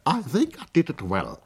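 high, bright-voiced young Englishwoman; English girl. A narrator's reading. Miss Rose announcing her sketch is done, high and cheerful.

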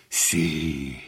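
a lightly voiced, flustered stammer. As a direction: lose your composure on „Sie“. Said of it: "stotterte der Oberst völlig aus der Fassung".

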